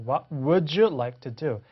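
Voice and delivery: "would you" drawn out as wu-joo; linking model. Shown as a demonstration. Teacher repeating for learners, "would you" slowly linked. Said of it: "이렇게 죠".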